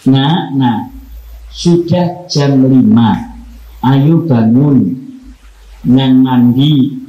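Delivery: put-on slow, gentle coaxing of a sleepy child; mother waking child. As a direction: coax him out of bed kindly. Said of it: "dibangunkan sama ibunya". (ibu membangunkan anak dengan lembut dan pelan)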